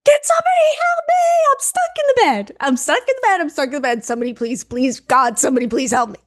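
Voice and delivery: high-pitched shriek fading into pleading at normal pitch; retold panicked screaming. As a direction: act out screaming for help, starting very high and easing down. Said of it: "Okay, I'm screaming".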